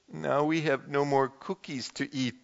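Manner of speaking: mild mournful sigh of a line; understated sad Toad; sadly. Acted. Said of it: "said Toad sadly".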